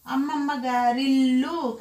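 అమ్మమ్మ గారిల్లు joined, with a long pressed ల్లు; గారి glided straight into ఇల్లు in అమ్మమ్మ గారిల్లు; words run together. Shown as a demonstration. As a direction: read అమ్మమ్మ గారిల్లు as one linked phrase. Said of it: "కలిపి చదివేయాలన్నమాట".

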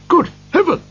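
high-pitched cry of amazement; astonished cry. A narrator's reading. Gentleman hears Scrooge's whispered offer, crying out amazed. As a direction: exclaim high in utter surprise. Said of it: "cried the gentleman".

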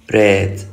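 ريد as "red" with an open "eh"; short open e. Shown as a demonstration. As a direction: model ريد as English "red". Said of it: "تأكد لي من اللفظ".

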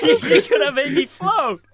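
high, slow laughing yell; laughing shout. Real, not acted. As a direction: laugh it out loud. Laughing while floating.

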